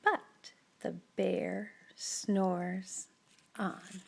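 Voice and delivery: slow soft whisper, so as not to wake him; hushed refrain. A narrator's reading. Narrator whispers so the sleeping bear won't wake. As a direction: tiptoe the words past the sleeping bear.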